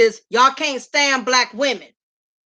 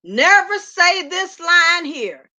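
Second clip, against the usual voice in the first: slow emphatic warning; 3 semitones higher, slower than usual. Real, not acted. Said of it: "So listen".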